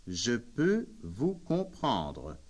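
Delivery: "je peux vous comprendre" said slowly and carefully, each syllable clear; slow it down for the learner; deliberate, unhurried repeat of "je peux vous comprendre". Shown as a demonstration. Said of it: "Si vous parlez lentement".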